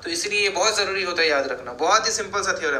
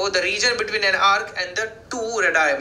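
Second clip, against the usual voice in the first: slow dictation; much slower than usual. Shown as a demonstration. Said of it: "dictating the definition".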